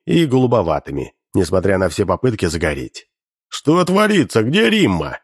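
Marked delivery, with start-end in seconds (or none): 3.5-5.2 higher, half-shouted outrage; mock shout. A narrator's reading. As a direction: cry out as if robbed. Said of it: "кричал он".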